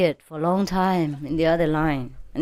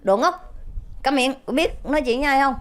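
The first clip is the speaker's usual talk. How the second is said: retold yell; 7 semitones higher than usual. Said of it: "ông hét lên".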